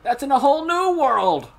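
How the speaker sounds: high, loud cry; exclaimed pun. Pretend. Firing a game-title pun at friends, high loud cry.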